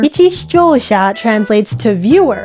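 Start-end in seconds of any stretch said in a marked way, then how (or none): 0.0-1.1 speaking with a retainer in; words slurred by a retainer; wearing a retainer. Real, not acted. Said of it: "I can't say that with my retainer".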